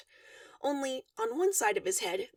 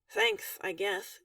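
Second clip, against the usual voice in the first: snorting; 6 semitones lower, much slower than usual. A narrator's reading. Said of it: "you snort".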